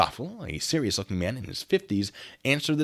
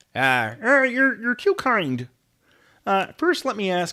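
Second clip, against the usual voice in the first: high-pitched, stammering delivery; 12 semitones higher, 5 dB louder than usual. Reading a mystery story aloud, voicing the Inspector in a Kermit the Frog voice. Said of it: "Inspector Parnacki is going to be Kermit".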